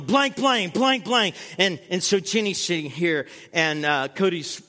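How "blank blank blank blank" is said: mock cursing. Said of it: "this lady going".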